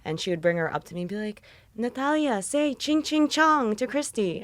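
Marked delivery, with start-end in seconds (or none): 1.8-4.4 mocking relative. Toddler's mother voiced mockingly.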